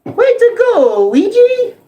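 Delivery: very high, squeaky laughing Mario. Retold or imitated. Mario cheering Luigi in a very high squeaky voice. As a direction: bounce through it like an excited Mario. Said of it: "that's my Mario voice".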